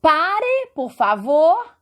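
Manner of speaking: high, firm demonstrated command; imperative order. Shown as a demonstration. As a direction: order a stop, "Pare" pitched high. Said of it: "dá ideia de ordem".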